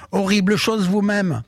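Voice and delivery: high mock-indignant witch retort; witch shouting back. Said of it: "en criant". (sorcière vexée qui crie d'une voix aiguë)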